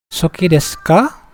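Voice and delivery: "ka" at the end rises clearly, question tune; rising question. Shown as a demonstration. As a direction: lift the pitch on "ka" to ask. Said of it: "ka di intonasinya meninggi". ("ka" diucapkan dengan intonasi naik)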